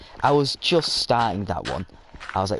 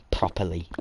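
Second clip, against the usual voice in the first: condescending; 3 semitones lower than usual. Retold or imitated. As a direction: enunciate "properly" with mild condescension. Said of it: "no, condescending".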